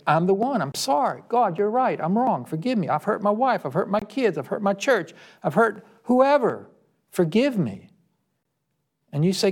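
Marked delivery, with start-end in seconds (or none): 0.1-7.9 pleading confession pitched higher; repentant prayer. Pretend. A sinner confessing to God, pleading and contrite. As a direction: beg God's forgiveness, sincerely.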